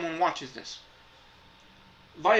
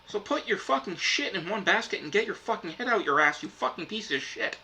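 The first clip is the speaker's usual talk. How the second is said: fed-up swearing tirade, voice pushed up; telling the companies off, genuinely exasperated; real frustration; 4 semitones higher than usual. Real, not acted. Vlogger to streaming companies, real frustrated rant. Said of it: "I'm visibly frustrated right now".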